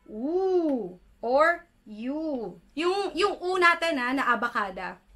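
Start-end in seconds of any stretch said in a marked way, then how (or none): 0.1-2.6 U drawn out very slowly. Shown as a demonstration. Teacher shows the vowel U: slow and drawn out. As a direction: stretch the U out long. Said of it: "This is".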